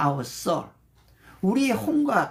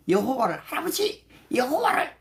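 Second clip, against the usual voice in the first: put-on child's prompt; 5 semitones higher than usual. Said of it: "그러면 걔들이 이렇게 해요".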